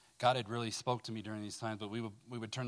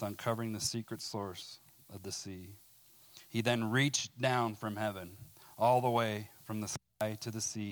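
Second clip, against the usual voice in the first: fuller, louder reading voice with weight; scripture reading; 4 dB louder than usual. Acted. Preacher reading Psalm 18 to the room, in a proclaiming voice. Reads psalm aloud to congregation.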